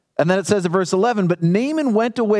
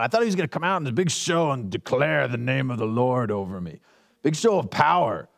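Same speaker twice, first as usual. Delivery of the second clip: lightly voiced Naaman; 5 semitones lower than usual. Voicing Naaman's disappointment.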